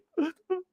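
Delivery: high-pitched fake sob; imitated whimpering before a tearful line; put-on high sobbing sound; mock crying. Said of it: "She get to crying".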